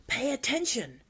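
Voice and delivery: understated scream for attention; mock scream. A narrator's reading. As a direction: order a troop to listen without full volume. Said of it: "screamed Gobber the Belch".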